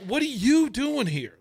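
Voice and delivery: high-pitched mock disbelief; imitating incredulity. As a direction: ask it high, leaning on "you" in amazement. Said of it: "incredulous look on his face".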